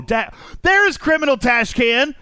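high excited shout across the room; calling out. Real, not acted. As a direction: yell out a happy greeting. Spotting a friend, calling out.

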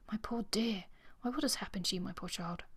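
tender, mildly acted dismay, softening at the end; concerned exclamation. A narrator's reading. Earl to injured Miss Morville, tender concerned exclamation. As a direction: fuss gently over someone hurt.

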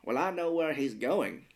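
slow, measured movie-line delivery; deliberate, drawn-out dramatic quote; Morgan Freeman. Retold or imitated. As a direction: deliver it as a lightly imitated film star, unhurried. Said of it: "Morgan Freeman has another great line".

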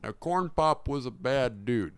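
lightly voiced old president; a hint of an elderly politician's story; Joe Biden impression. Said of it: "Joe Biden's head".

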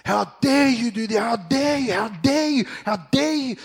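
loud, high mock scolding by the pastor; angry rebuke. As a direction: unload on him like a stern pastor. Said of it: "this guy would unload on me".

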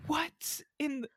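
confused. Retold or imitated. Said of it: "I was sitting there like".

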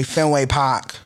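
put-on brief Boston accent on the name; Boston accent, dropped R; mock Boston accent. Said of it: "I've never heard any of y'all say".

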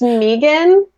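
"Megan" said as MEE-gan; mock mispronunciation. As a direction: draw out "Megan" with a long ee first. Joke claim about name's pronunciation.

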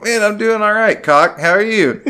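high, loud mock-friendly answer; awkward guy answering a cop, high and loud; mock cheery reply. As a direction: greet the cop with mocking cheer.

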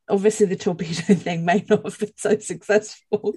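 words broken by giggles; trying to ask through laughter; laughing while talking. Real, not acted. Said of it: "can't stop laughing while trying to ask".

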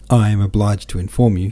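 formal announcement with a touch of sing-song. A narrator's reading. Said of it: "he went on in a sing-song tone".

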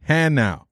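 Hanau spelled out by ear as HAN-ow; slow, deliberate HAN-ow for Hanau; instructive pronunciation. Retold or imitated. Sergeant teaching the specialist the name, Hanau as HAN-ow. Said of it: "the name is pronounced".

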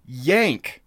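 slow, drawn-out mock yell; retold scream. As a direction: call it out long and stern like an instructor. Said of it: "all I hear is someone screaming".

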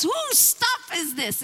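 high, loud, slow officer's challenge; police demand. Retold or imitated. Swat officer demanding who owns the sound system, loud. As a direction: bark it across the loud party.

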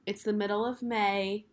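hoarse from being sick; rough, still-recovering voice. Real, not acted. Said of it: "sorry about my man voice".

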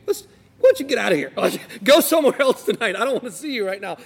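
quick, lightly voiced brush-off; a hint of a fed-up wife shooing him away; mock annoyed wife. Imagined wife sending her dutiful husband away, quick mock brush-off.

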